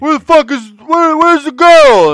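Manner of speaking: high, drawn-out mock yelling; Jane. Jane demanding the girl from the guys, imitated yelling. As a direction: holler the demand as a loudmouth. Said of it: "loud-ass mouth yelling and shit".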